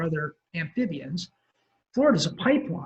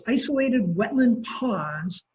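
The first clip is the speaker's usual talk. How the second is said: isolated said slowly and with weight; stress on isolated; 4 semitones higher, slower than usual. Real, not acted. Lecturer to class, stressing isolated slowly. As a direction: lean on isolated, slow and deliberate. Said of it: "I emphasize the word isolated".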